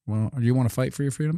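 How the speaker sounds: fast mock official.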